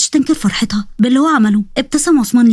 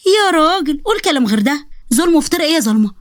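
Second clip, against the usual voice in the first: indignant retort; 4 semitones higher than usual. Acted. Indignant retort to the accusing relatives.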